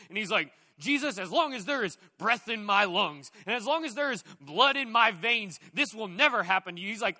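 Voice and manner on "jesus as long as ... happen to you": loud, rousing war-speech voice, every line pushed out; rally like a warrior before battle; William Wallace battle cry. Retold or imitated. Peter vowing to defend Jesus, loud warrior speech. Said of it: "goes full-blown William Wallace from Braveheart".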